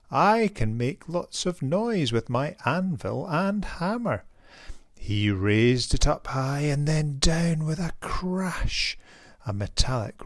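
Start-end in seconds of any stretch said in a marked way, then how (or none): 0.1-4.2 blacksmith. Acted. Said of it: "cried the blacksmith".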